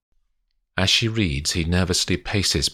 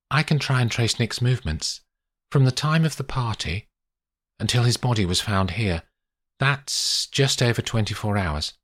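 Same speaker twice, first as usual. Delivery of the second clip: lightly voiced lawyer, higher-pitched; composed lawyer; 6 semitones higher than usual. Olivia offers Paddy to trace Nick's movements, composed. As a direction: offer practical help in a measured way.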